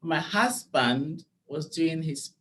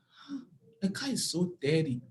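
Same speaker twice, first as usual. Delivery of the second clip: shocked disgust; 3 semitones higher, 4 dB quieter than usual. Retold or imitated. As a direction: recoil at the dirty car. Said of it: "I was like".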